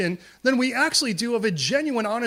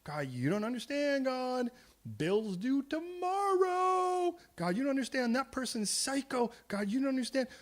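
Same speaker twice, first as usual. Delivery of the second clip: whiny complaint; 5 semitones higher, 6 dB quieter than usual. Retold or imitated. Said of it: "It isn't like".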